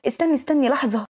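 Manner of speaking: a touch of alarm, stalling someone; frightened. Acted. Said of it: "فبيخاف".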